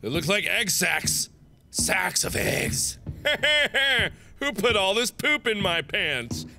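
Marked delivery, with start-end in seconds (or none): 1.7-3.0 whisper. Real, not acted. Slow whispered disgust. 3.0-4.1 laughing. Real, not acted. Laughing at own joke.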